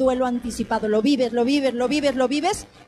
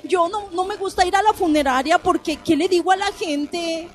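lightly voiced flustered friend, a bit higher; nervous acquaintance quoted; 5 semitones higher than usual. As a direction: confess the blunder like an embarrassed friend. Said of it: "Hay gente que me dice". (amiga nerviosa imitada con voz un poco más aguda)

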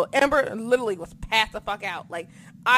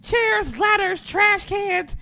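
high, louder, slower hyped list; rising hyped shout; excited listing; 9 semitones higher, 6 dB louder, slower than usual. Real, not acted. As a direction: punch each weapon with glee.

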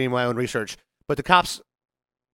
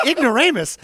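amused disbelief; 11 semitones higher, 5 dB louder than usual. Retold or imitated. Incredulous echo of insult.

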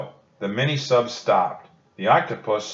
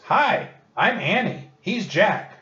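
much higher, bright hello called out; friendly call; 11 semitones higher than usual. A narrator's reading. Annie calling out to the octopus, much higher. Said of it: "She yelled to the octopus".

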